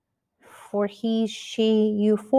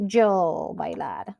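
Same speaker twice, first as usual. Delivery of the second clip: slow, low "yo bailar"; wrong-form example; 4 semitones lower, 4 dB quieter, slower than usual. Shown as a demonstration. Teacher showing what she doesn't say, slow and low. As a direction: stretch "yo", then "bailar" left unconjugated. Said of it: "So I don't say".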